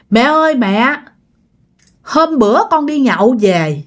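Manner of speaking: mildly tearful son begging his mother; crying ghost son. Retold or imitated. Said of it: "chú Lắm khóc nha".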